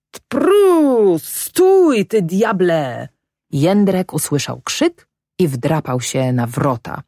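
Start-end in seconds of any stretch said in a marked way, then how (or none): 0.1-3.1 high, loud panicked cry to the horse; shouting at the top of his lungs. A narrator's reading. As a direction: bellow at the bolting horse to stop. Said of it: "na całe gardło począł wołać".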